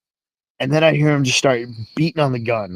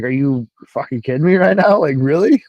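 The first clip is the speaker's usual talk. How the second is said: retold disbelief, rising at the end; can't believe what he just heard; incredulous; 3 semitones higher, 3 dB louder than usual. Retelling his disbelief at the cook.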